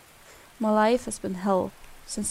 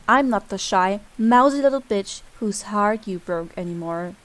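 low louder snarl; angry snarl; 3 semitones lower, 4 dB louder than usual. Acted. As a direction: spit it at him. Snarling at the boy.

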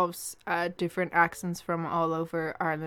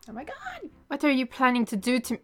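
mock alarm; 6 semitones higher, 6 dB louder, faster than usual.

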